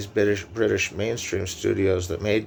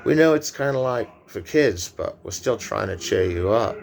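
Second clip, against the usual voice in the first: put-on British accent. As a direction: lightly voice the filmmakers in a British accent. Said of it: "Me doing a British accent".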